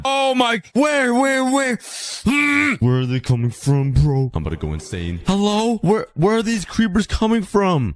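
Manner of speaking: high, frantic, disbelieving cries; panicked. Real, not acted. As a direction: panic at the sudden chaos. Creepers blew up his base.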